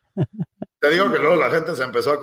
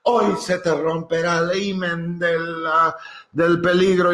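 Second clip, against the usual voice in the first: sugary welcome, pitched higher and drawn out slow; hammed-up churchgoer greeting the new guy; mock church welcome; 4 semitones higher, slower than usual. Churchgoer welcoming a first-timer, hammed-up sweet.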